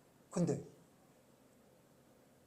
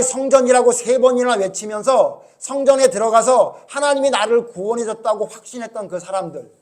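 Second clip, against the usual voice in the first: raised, emphatic sermon delivery; forceful preaching; 5 semitones higher, 13 dB louder than usual. Acted. Pastor warning the congregation about a false gospel, forceful preaching. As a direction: press each phrase home to the congregation.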